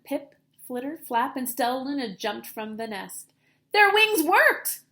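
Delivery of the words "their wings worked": high, loud, slow wonder; excited exclaim. A narrator's reading. Stellaluna watching the birds fly, excited exclaim. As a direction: exclaim in delight.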